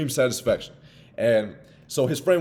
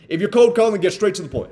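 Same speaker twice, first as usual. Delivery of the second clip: "cold calling" said louder and higher, driven home; emphatic; 8 semitones higher, 7 dB louder than usual. Shown as a demonstration. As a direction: hammer the rule home. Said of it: "This will be number thirteen".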